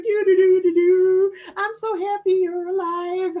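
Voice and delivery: high, squeaky cat voice; high sing-song voice of a relieved cat; cat's voice. Retold or imitated. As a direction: play the happy cat trotting ahead. Voicing the cat's thoughts.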